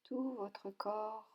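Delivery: usual speaking voice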